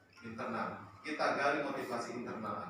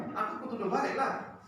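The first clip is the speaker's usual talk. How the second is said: angry student retort; 8 semitones higher, 3 dB louder than usual. Retold or imitated. Student quote repeated.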